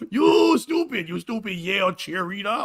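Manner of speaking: high, shouty slow old-man Bush impression; George Bush senior. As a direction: bellow like an angry old president dad. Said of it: "it's me, George Bush".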